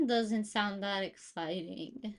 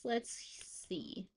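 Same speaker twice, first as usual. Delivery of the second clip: whisper; 11 dB quieter than usual. Real, not acted. Whispered to herself.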